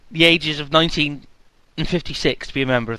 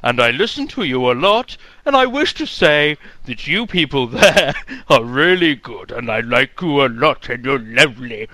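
louder, nonstop gushing caller; breathless rambling caller; 6 dB louder than usual. Retold or imitated. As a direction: gush without taking a breath. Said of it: "you pick up the phone and you go".

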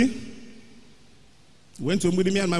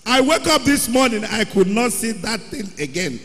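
son's excited news; 4 semitones higher than usual. Retold or imitated. Son's news repeated, higher.

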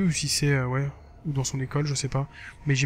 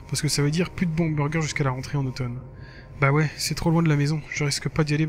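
lively reading of a blog entry; lightly performed text narration; diary read-aloud. Acted. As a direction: read it out like a casual teen diary. Reads game diary aloud.

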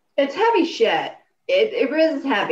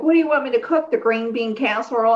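imitating Mom; 4 semitones higher, faster than usual. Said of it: "She's like".

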